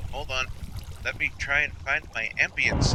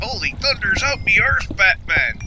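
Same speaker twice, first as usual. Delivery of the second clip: higher, stage-Irish Robin exclamation; 7 semitones higher than usual. Pretend. Joking to a beer drinker, mock Irish Robin accent. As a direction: belt it as a hammed-up Irish Robin. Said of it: "what if we had an Irish Robin and Batman".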